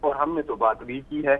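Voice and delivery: measured poetic delivery; couplet recitation. Acted. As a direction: recite it as verse, pausing after the line.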